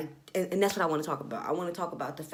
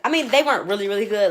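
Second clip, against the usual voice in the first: exaggerated; 3 semitones higher, 9 dB louder, faster than usual. Real, not acted. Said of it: "Let me not exaggerate my part".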